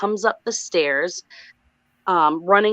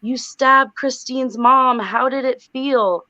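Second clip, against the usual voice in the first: slow, raised-pitch mock demon accusation; demonic scream; 5 semitones higher, slower than usual. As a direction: draw out each word like a demon taunting. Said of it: "screaming in this weird demonic voice".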